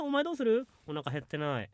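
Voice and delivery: ordinary talk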